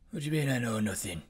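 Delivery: fast, bewildered; dim Jon Snow. Shown as a demonstration. Jon Snow played really stupid, fast and confused. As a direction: blurt it out baffled. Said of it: "really stupid".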